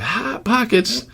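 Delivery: high, soft, drawn-out comic voice; Jim Gaffigan. Retold or imitated. Quoting a comedian's food bit, high slow singsong imitation. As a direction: stretch it slowly in a soft falsetto-like mimicry.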